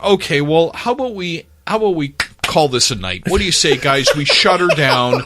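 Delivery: mock barroom last call to the players; firm last call. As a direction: shut the party down like a bartender at closing. Shutting down a locker room fight.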